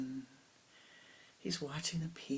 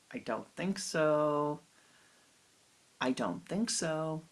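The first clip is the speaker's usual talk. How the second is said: slow, stubborn, louder refusal; defiant refusal; 4 dB louder, slower than usual. Acted. Disciple refusing his guru, stubbornly defiant. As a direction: dig in your heels and refuse. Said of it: "this is not such a nice way to talk to your guru".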